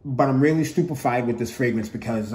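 chewing gum while talking. Real, not acted. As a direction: talk around a wad of gum. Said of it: "I'm chewing gum".

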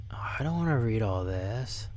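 whining whisper; reluctant whisper. Real, not acted. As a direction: whisper it grudgingly.

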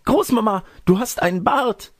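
put-on very high-pitched girlish shriek; crying out. A narrator's reading. Girl discovers grandmother has a beard, high crying-out voice. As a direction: cry out in alarm as a little girl. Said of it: "Rotkäppchen aufschreiend".

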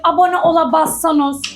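put-on playful regional Turkish accent, pitched slightly up. Wife badgering viewers to follow and subscribe, in put-on regional Turkish accent. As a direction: lay on a mock provincial Turkish accent. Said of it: "yeter ki şive yapma".

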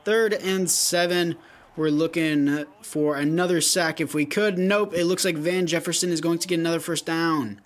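lively sports commentary; play-by-play. Acted. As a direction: call the game live. Live play-by-play of his game.

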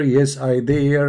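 drawn out, slow reply; slow mock answer. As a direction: stretch each word. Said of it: "slowed repeat".

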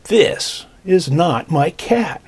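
slow, drawn-out disappointment; mildly let down. Acted. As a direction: drag it out, a touch deflated. Boy disappointed, wrong cat.

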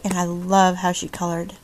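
ordinary talk, nothing marked

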